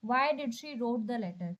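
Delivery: reading the wrong sentence slowly, word by word; slow careful reading. Shown as a demonstration. Teacher reading a wrong option slowly to students. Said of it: "Wrote क्या है?".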